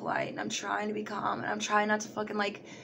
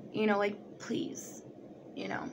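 scared whisper; 7 dB quieter than usual. Retold or imitated. Scared inner plea in Walmart.

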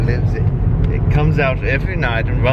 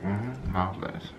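posh butler voice; 3 semitones lower, 3 dB quieter than usual. Pretend. Posh mock regret.

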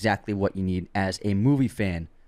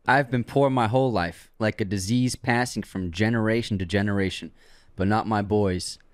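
put-on southern accent. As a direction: quote it with a mild Southern accent. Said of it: "You did it in a southern accent".

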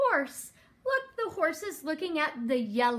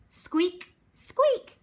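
high mouse squeaks, the second higher; 4 semitones higher than usual. Acted. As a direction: squeak like a mouse, jumping up in pitch. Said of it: "What does a mouse say?".

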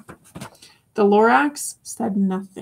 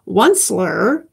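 croaking cry; slower than usual. Acted. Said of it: "he cried with a crufulous croak".

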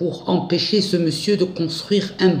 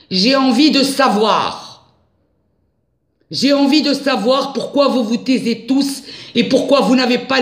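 indignant; 8 semitones higher than usual. Real, not acted. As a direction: demand answers, voice climbing. Indignant rant about missing money.

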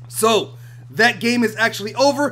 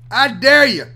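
louder dare; 2 semitones higher, 6 dB louder than usual. Real, not acted.

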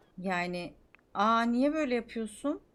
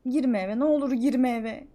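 louder, pleading with energy; 3 semitones higher, 5 dB louder than usual. Acted. Pleading with the Sim not to enter the house, loud and energetic. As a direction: beg them loudly not to go in.

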